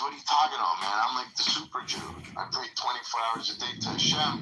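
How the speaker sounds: a self-proclaimed saint indignantly protesting to the judge; indignant outburst. Retold or imitated. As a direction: protest like he can't believe he's doubted. Indignant man defends himself.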